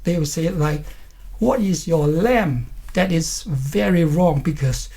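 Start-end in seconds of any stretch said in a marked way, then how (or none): 1.4-2.7 "name" said as "lam", losing the nasal N; non-native mispronunciation. Retold or imitated. Teacher imitates some non-native speakers, "name" turned into "lam". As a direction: swap the N of "name" for an L. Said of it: "some non-native speakers".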